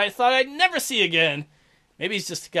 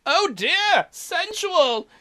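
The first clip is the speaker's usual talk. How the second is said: much higher swoony voice; mock swooning; 8 semitones higher, much slower than usual. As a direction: swoon over the kiss. Mocking kiss voice.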